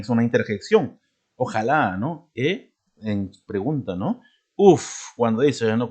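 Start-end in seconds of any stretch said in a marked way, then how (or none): 4.5-5.1 a high, louder tired huff. Shown as a demonstration. Teacher to class, a tired "Uf" sound. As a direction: blow out as if worn out. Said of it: "Cuando te cansas".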